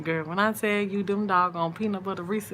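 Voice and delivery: ordinary talk, nothing marked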